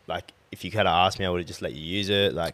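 monotone calm. Retold or imitated. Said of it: "talking monotone voice".

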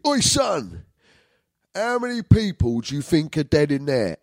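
high, cheeky dad voice; imitating his dad's cheeky question. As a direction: put on the old man's joking tone. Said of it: "my old man always used to say to me".

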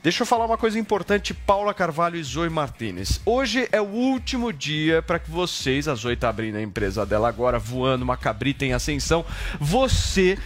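pushy discount sales pitch; hard sell ad. Acted. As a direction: hype the deal like a pitchman. Host pushes course discount.

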